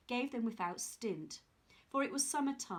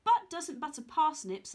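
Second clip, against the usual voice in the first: laughing; 4 semitones higher, 6 dB louder than usual. Acted. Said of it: "laughed Jack".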